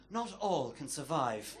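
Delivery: slow, hushed nature documentary narrator; a light slow take on a wildlife narrator, measured and grave; David Attenborough. Retold or imitated. Joking to the crowd about his commute, a slow mock documentary voice. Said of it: "David Attenborough's voice".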